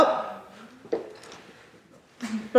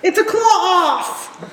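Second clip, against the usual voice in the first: laughing; 7 semitones higher, slower than usual. Real, not acted. GM announces with laugh.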